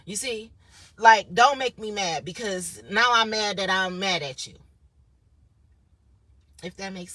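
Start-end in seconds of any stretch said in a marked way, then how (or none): 1.0-2.3 much louder, slow, warning; stern warning. Retold or imitated. Warning whoever accused her, loud and slow. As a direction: lay it down slowly like a threat. Warning someone in retold anger.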